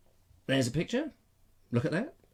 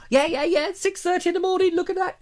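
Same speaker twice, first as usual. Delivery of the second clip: eager self-mimic; 14 semitones higher, faster than usual. Waiting eagerly for the postman.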